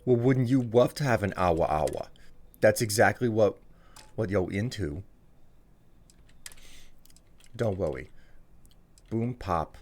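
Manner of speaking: put-on cutesy baby talk uwu voice. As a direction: lisp cutely like an uwu streamer. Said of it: "All right, Uwu voice it is".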